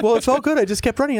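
high, breezy mock buddy voice. Buddy explaining why he kept running, breezy. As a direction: toss it off like it was nothing. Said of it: "He's like".

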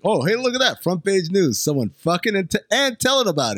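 high, mock amazed reader; hammed-up gossiping reader; newspaper reader voice. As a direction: gawk at the headline. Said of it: "reading the paper is like".

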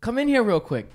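mock-call him indoors urgently. Girlfriend calling Tim in from the yard, mock call. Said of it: "my girl goes".

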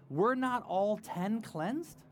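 slow, puzzled question, the pitch rising; Jesus wondering aloud where the rest went; a little confused. Acted. Jesus asks his disciples, a little confused and slow. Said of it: "a little confused".

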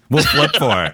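high playful singsong; high silly voice. Pretend. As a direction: squeak it out playfully. Jokey coin flip.

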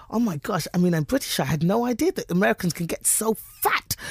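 put-on naive astonishment; playing ignorant. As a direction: feign wide-eyed cluelessness, building to the last word. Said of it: "is by playing ignorant".

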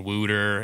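"Wooter" for water, with an "oo" vowel; Delco-style "Wooter"; Philly pronunciation. Shown as a demonstration. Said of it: "like, saying "Wooter".

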